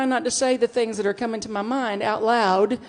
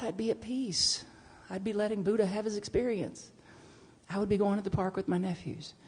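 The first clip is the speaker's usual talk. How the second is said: peaceful; 7 dB quieter than usual. Real, not acted. Reflecting on letting go, soft and peaceful. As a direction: settle into peace.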